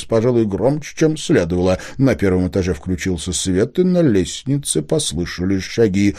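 usual speaking voice

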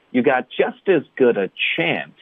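"just as good a chance" run together, "as" and "a" weakened; linked speech. Shown as a demonstration. Teacher demonstrating linking to learners, linked speech. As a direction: join each word onto the next. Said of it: "我们会连读".

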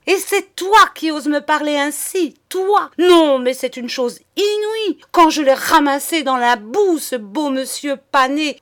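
high, loud, outraged tirade; roaring fury. A narrator's reading. Madame humiliating the husband she rescued, roaring rage. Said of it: "rugit-elle enfin".

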